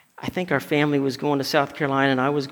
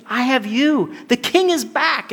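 so happy; 7 semitones higher than usual. Acted. Mephibosheth welcomes the returning king, so happy. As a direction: exult with pitch leaping up. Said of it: "and he's so happy".

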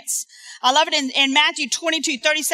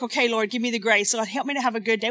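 soft prayer; 4 semitones lower, 6 dB quieter, faster than usual. Retold or imitated. Quiet prayer quoted.

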